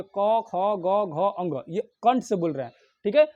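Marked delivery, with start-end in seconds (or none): 0.0-1.6 क, ख, ग, घ, अंग spoken one by one from the throat; throat consonant demo. Shown as a demonstration. Teacher sounding out क, ख, ग, घ, अंग for students. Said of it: "उच्चारण करके बोल के देखिए".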